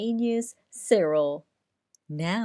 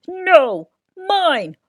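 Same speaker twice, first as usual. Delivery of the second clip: loud, high holler; 8 semitones higher, 8 dB louder than usual. A narrator's reading. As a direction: holler back over him. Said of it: "hollered Bruce".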